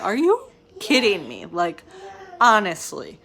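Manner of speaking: retold burst of amused disbelief; incredulous retort. Woman to the brothers who were just screaming, incredulous. Retells her reaction to brothers' sudden make-up.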